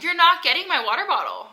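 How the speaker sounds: high voice scolding the puppy; talking to a dog. Real, not acted. Scolding dog grabbing water bottle.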